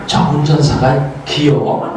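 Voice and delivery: slow, lightly voiced child asking; a child's naive question; innocent daughter. (천진난만한 딸의 질문)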